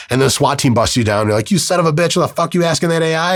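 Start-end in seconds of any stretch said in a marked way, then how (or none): 1.5-3.4 higher, hammed-up yell at the suspect; mock angry cop. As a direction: play a swat cop bursting in, half-shouting. Swat officer yelling at arrest.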